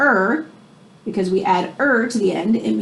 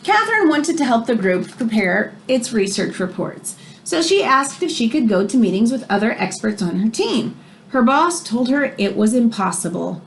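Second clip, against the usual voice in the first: expressive read-aloud storybook voice; reading to children; 2 semitones higher than usual. Acted. Teacher reading a biography to her class, expressive read-aloud. Reads picture book to class.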